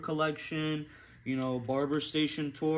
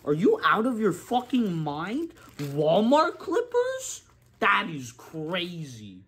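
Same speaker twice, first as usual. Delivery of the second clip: angry rant; 3 semitones higher, 5 dB louder than usual. Real, not acted. Barber ranting to camera about cheap clippers, loud outrage. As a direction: blow up at the idea of cheap clippers. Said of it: "Had to go on that little rant".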